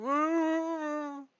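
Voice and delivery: high, loud hooting ghost moan; spooky high ghost woo. Pretend. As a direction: howl it like a cartoon ghost. Ghost moaning from behind.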